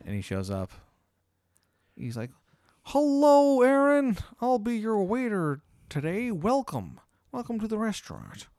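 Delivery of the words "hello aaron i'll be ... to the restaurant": jacked waiter welcoming the diner, high voice. Acted. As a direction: put on a high eager waiter greeting.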